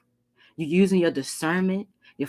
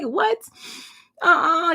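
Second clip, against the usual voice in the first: sassy uh-uh; 12 semitones higher, slower than usual. Retold or imitated. You refusing the ex.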